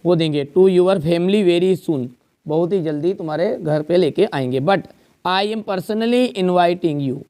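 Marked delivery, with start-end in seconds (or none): 0.5-2.1 each word drawn out slowly for copying; slow dictation. Shown as a demonstration. Teacher dictating an invitation letter to the class, very slow. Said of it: "dictating letter slowly". 4.6-7.2 each word drawn out slowly for copying; slow dictation. Shown as a demonstration. Teacher dictating an invitation letter to the class, very slow. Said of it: "dictating letter slowly".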